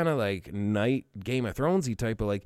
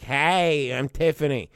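mock American girl; 2 semitones higher, slower than usual. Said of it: "it went from, like, gorgeous, beautiful princess to just".

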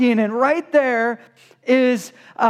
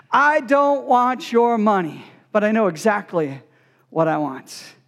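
architect's reply; 4 semitones lower than usual. Retold or imitated. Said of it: "he said".

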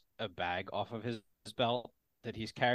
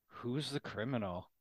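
sleepy tone; 5 dB quieter than usual. Acted. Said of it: "speaks in a sleepy tone".

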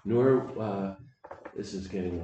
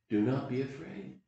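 reassuring; 3 semitones higher than usual. Shown as a demonstration. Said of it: "I'm gonna pass on to you".

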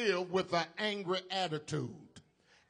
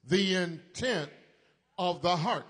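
louder, full-voiced unison; best voices; 4 dB louder than usual. Shown as a demonstration. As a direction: say it out proud with your best voice. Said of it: "Let's say it with our best voices".

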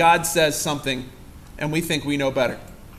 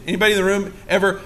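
ordinary delivery

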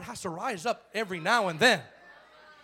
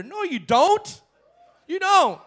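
loud and higher, rising to a shout; forceful shout; 8 semitones higher, 10 dB louder, slower than usual. Real, not acted. Preacher shouting back at the mocked objection. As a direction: slam the objection down hard.

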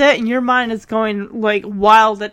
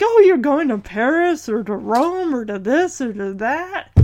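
mocking envious friend. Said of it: "like, like".

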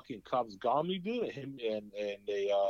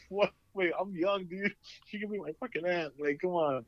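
incredulous protest; 8 semitones higher than usual. Retold or imitated. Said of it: "I was like".

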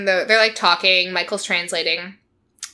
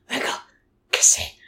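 toneless, muffled mock request; voiceless mumbled imitation; imitated mouth full. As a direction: talk as if holding a snail in the mouth. Imitating Angela with snail in mouth.

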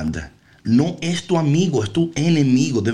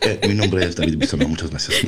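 laughing; 9 semitones lower, faster than usual. Real, not acted. Laughing self-introduction.

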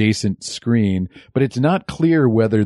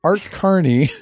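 "Art Carney" higher with a laugh; laughing repeat; 7 semitones higher than usual. Shown as a demonstration. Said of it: "Who's Art Garney?".

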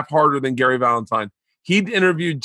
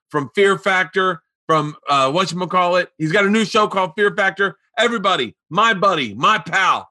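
higher-pitched, lightly acted show introduction; host introduction; 6 semitones higher than usual. Comic imitating his friend introducing a buddy, announcer-like. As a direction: build up the guest like a host.

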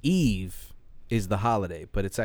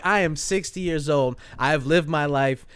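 raised, insistent voice; mildly hammed-up indignation, higher pitched; indignant retold mother; 5 semitones higher than usual. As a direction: push back like a fed-up mom. Retold mother refusing to be corrected.

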